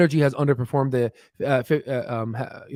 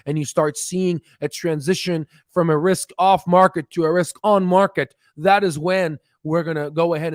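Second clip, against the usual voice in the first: excited; 5 semitones higher, 3 dB louder than usual. Real, not acted. Builds up to climax.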